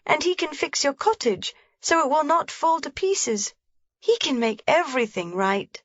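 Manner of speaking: put-on a small girl's high, comforting promise; consoling. A narrator's reading. Heidi consoling grandmother, eager and comforting. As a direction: reassure her brightly. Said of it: "said consolingly".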